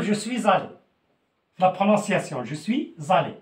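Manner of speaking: je suis allé with the liaison, suis linked to allé as "suizallé"; liaison shown. Shown as a demonstration. Teacher showing the French liaison to Moroccan students: "suis" joined to "allé" with a z. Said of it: "La liaison".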